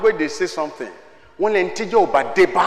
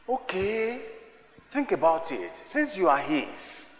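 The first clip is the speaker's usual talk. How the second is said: hushed reflection; 6 dB quieter than usual. Real, not acted. Preacher softly prompting the congregation to reflect. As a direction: draw them in quietly.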